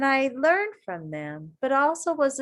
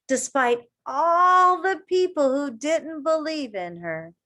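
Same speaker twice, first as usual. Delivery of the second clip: put-on reading to children. A narrator's reading. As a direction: read it to a circle of kids. Reading picture book aloud.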